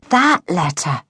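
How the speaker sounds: THAT letter, said slowly as it dawns; sheepish recognition on THAT letter; dawning realisation. A narrator's reading. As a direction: lean on THAT as you finally remember. Boy realises which letter is meant.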